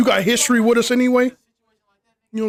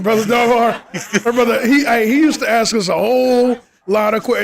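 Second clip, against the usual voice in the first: laughing as he talks, pitched up; amused; 4 semitones higher, 3 dB louder than usual. Real, not acted. Host teasing about a brother's endless questions, amused. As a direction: laugh through the words, higher-pitched.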